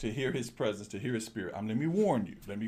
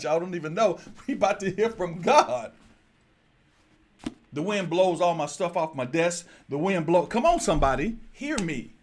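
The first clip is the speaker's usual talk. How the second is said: rising, louder preacher cadence; preaching; 3 dB louder than usual. Acted. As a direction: preach it, build the crowd up. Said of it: "That was my preaching".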